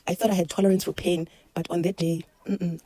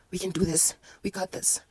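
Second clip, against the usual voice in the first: self-talk; 3 dB quieter than usual. Retold or imitated. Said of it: "I'm talking to myself".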